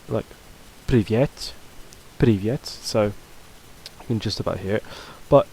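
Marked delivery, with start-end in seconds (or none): 0.9-1.5 "привет" with a small extra stress on the е; light second stress. Shown as a demonstration. Teacher showing a second stress point, light stress on "е" in "привет". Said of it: "sort of a small amount of stress on it". 2.2-2.7 "привет" with slight secondary stress on its е; light second stress. Shown as a demonstration. Teacher letting learners just hear it, light stress on "е" in "привет". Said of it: "sort of a small amount of stress on it".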